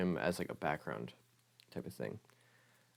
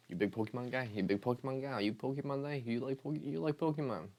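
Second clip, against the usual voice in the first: mock-eager quizzing, higher and higher; playful pestering; 7 semitones higher than usual. Quizzing viewers about liking Pokemon, playful pestering. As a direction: pitch climbing higher with each repeated question.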